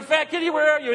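high-pitched mimicked pet call; imitated calling out. Abby joining the search for the cat, imitated call. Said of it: "And Abby's going".

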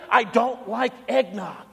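slow, flat-out firm no; firm refusal. Retold or imitated. Preacher refusing the insistent cashier's eggnog, slow and firm. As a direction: put your foot down slowly on each word. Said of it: "I'm like".

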